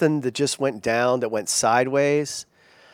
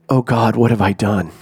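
mock dread, breaking into a laugh after; nervous; 3 semitones lower, 4 dB louder than usual. Pastor realizing the prophet is on the phone, mock nervous. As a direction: play up an oh-what-now panic lightly. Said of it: "I was super nervous".

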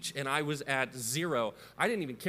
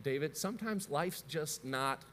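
mom's patient line; 4 dB quieter than usual. Retold or imitated. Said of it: "she would say the statement".

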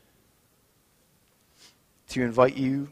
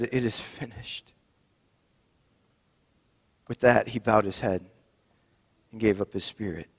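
measured, solemn reading of the Passion; scripture reading. Acted. Pastor reading the crucifixion story to the congregation, solemn.

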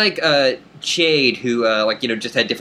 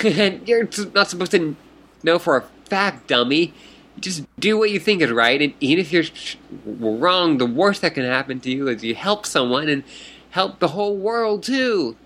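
put-on high, bubbly fish girl voice; excited fish troll; 4 semitones higher than usual. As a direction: greet her like an eager fish troll.

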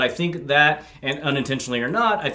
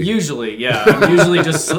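laughing; 4 semitones higher, 5 dB louder than usual. Real, not acted. Joking, laughing.

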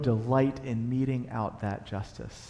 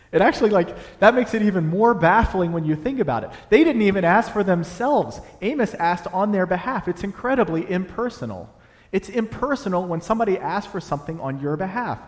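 emphatic preaching; 5 semitones higher, 5 dB louder than usual. Real, not acted.

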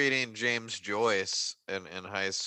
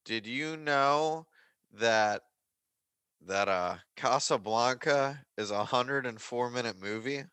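Greg Turkington. Acted. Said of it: "a Greg Turkington-esque fact".

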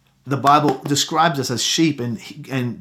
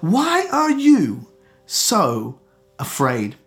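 higher, very slow drawn-out question; gentle questioning; 4 semitones higher, much slower than usual. Acted. Jesus asking Christians today, slow and gentle. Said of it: "Jesus would ask".

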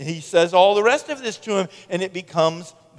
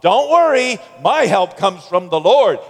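psalmist's self-talk; 3 semitones higher, 5 dB louder than usual. Acted. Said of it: "Self-talk".

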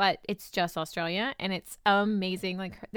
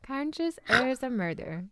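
higher, slow mock accent with overdone R's; exaggerated R accent; 4 semitones higher, slower than usual. Shown as a demonstration. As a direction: stretch the silly R accent out slowly. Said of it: "speak with those R's".

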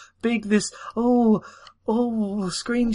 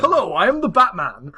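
1940s Batman voice. Acted. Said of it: "this nineteen forties Batman".

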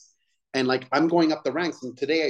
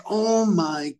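drawn-out disbelief; 7 semitones higher, much slower than usual. Retold or imitated. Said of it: "I'm like".

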